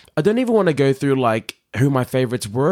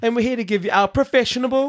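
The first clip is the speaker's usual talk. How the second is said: fast, high host patter; podcast intro; 9 semitones higher, faster than usual. Shown as a demonstration. Host slipping new word into intro, high intro delivery. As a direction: pitch it up like a show opener. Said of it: "Let's add it into our intro".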